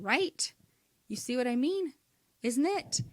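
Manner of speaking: rising "Right?" and "Isn't it?" seeking agreement; light upspeak tags; questioning tag. Shown as a demonstration. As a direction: check in with the audience on a rise. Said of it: "It's almost like saying".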